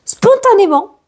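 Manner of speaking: slow, gentle reading of a card message. Acted. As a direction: read it like a soothing oracle message. Reads the card message aloud.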